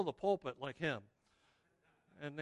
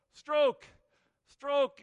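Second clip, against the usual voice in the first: coxswain bellowing stroke calls, high and loud; harsh barking commands; 8 semitones higher, 15 dB louder, slower than usual. Acted. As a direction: shout the rowing count like a coxswain. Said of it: "assumes the role of the coxswain".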